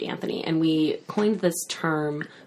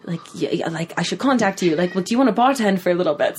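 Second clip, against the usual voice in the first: put-on higher, amateur Irish accent; bad Irish accent; 4 semitones higher than usual. Owner with sprained ankle asking for bartending help, bad Irish accent. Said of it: "that's not a good Irish accent".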